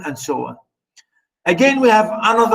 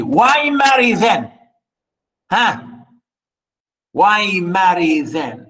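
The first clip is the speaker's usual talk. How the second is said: a sharp, higher challenge that slows on the repeat; indignant, read-aloud anger; angry retort; 3 semitones higher, slower than usual. Acted. Yarma scolding the girl who doesn't want children, angry. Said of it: "And Yarma was angry".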